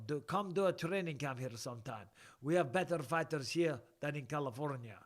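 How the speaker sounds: put-on Russian accent. Moscow viewer inviting a fighter to camp, Russian accent. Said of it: "I can do a Russian accent".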